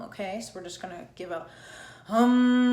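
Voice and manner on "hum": loud, strong hum. Shown as a demonstration. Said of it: "It's going to be a strong hum".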